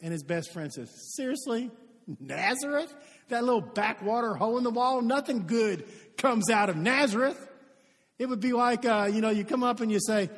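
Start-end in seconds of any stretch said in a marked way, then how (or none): 1.2-7.5 mildly scornful disbelief; skeptical. Acted. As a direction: dismiss the friend's news, incredulous. Best friend's scornful reply acted out.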